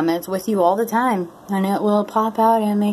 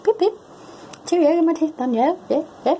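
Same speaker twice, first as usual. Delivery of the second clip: very high, hammed-up British accent; 11 semitones higher, faster than usual. Joking about dentures changing her speech, mock British accent. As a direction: do a silly piping British caricature. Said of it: "picking up a British accent".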